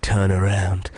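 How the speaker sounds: low mock-menacing order; torturer's command. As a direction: imitate a torturer ordering a victim. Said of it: "he turned to me and went".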